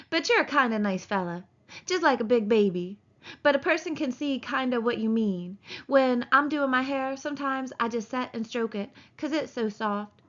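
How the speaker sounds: lightly voiced woman, musing and indulgent; a hint of a vain, friendly wife; chatty young wife. Wife chatting about stroking her hair, lightly self-pleased. Narrator voicing Curly's wife.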